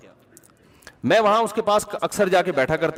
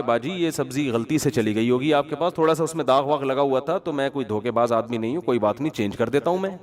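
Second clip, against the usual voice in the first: humble vegetable seller; 4 semitones lower than usual. Retold or imitated. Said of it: "تو اس نے کہا کہ".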